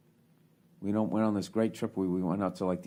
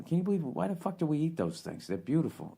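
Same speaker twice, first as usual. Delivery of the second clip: higher-pitched, baffled protest; retold incredulity; 10 semitones higher than usual. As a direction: question it in disbelief, pitch jumping up. Retold dismay to his companion.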